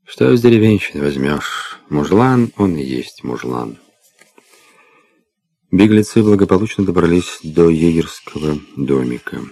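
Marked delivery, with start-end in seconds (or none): 0.0-3.8 scornful sneer at a peasant; disdainful. Acted. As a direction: say it with disgust. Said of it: "брезгливо отвернулся".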